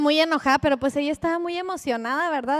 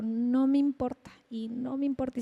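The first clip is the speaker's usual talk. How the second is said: llanto imitado; 4 dB quieter than usual. Retold or imitated. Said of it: "se soltó, llore y llore".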